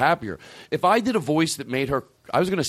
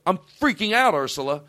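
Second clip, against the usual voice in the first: mock freak-out to the dog; 6 semitones higher than usual. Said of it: "I go".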